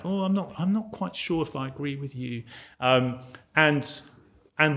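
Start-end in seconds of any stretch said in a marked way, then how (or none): 0.0-2.4 hedging Brit. Retold or imitated. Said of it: "Brits kind of hedge everything around".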